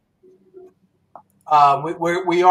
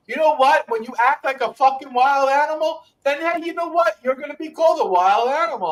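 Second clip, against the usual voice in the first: higher, pushing rant; fired-up rant; 5 semitones higher than usual. Real, not acted. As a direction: call them out, worked up. Ranting at online trolls.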